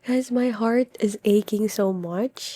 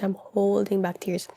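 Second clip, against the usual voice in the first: dropped to a softer, wobbly murmur; softer, tearful repeat; 5 dB quieter than usual. Real, not acted. Reading vlog, repeating softly that she is close to tears. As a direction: let it sink, nearly crying.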